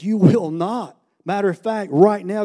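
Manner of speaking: firm, punched command; retold stern order. Leader to the defiant guy, retold stern order. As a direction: put your foot down, retelling it.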